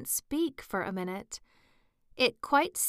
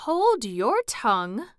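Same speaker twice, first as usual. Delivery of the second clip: louder sharp scolding cry; tiger lily shouting; 4 semitones higher, 6 dB louder than usual. Acted. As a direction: snap loudly at the violet. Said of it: "cried the tiger lily".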